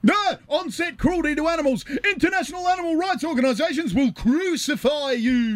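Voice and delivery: high-pitched frantic shout. Acted. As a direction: yell the warning in panic. Shouting warning during scuffle.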